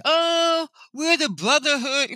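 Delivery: high-pitched mocking supervisor; mock excuse. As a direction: mimic him in a high, put-on voice.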